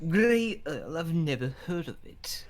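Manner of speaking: put-on British accent. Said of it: "turn British again".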